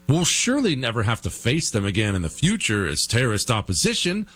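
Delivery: dry ironic praise; deadpan sarcasm about arming rebels; sarcastic. Real, not acted.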